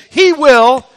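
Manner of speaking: loud, high, booming declaration; triumphant preacher's cry; with bombast. Shown as a demonstration. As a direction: blast it out to the rafters. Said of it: "say it with a little bombast".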